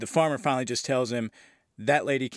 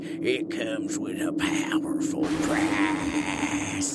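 every word drawn out, witch-like. Retelling a line from the on-screen character Haggis: Haggis's witchy voice. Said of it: "this perfect witchy voice".

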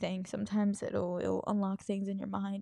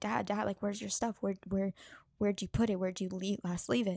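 mock-frantic delivery, not screaming. Retelling finding their dad with nothing, the speaker acts out questioning him: acting out frantic questioning. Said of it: "not screaming, but I'm like frantic".

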